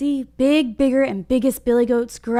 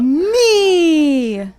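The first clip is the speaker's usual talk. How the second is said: loud, higher goat shout; big goat shouting back at the troll; biggest voice; 6 semitones higher, 9 dB louder than usual. Acted. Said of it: "yelled back at the troll in his biggest voice".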